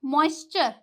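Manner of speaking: "मॉइस्चर" ending in chur; TURE as "chur". Shown as a demonstration. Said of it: "चर का sound देता है".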